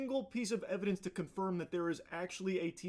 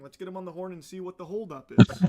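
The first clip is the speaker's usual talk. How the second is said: loud announcing; 2 semitones higher, 11 dB louder than usual. Acted. Announcing the call.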